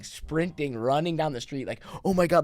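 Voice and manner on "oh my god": higher, louder mock freak-out; retold panic. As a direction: act out freaking out mid-story. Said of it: "like, freaking out, like, panicking".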